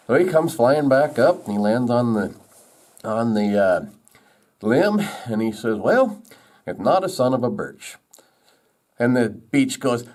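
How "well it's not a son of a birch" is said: lightly acted, higher-pitched verdict; woodpecker giving verdict. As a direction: start high, deliver it as a joke bird.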